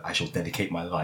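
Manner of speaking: solemn vow. Retold or imitated. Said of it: "Batman stood over his parents' bodies".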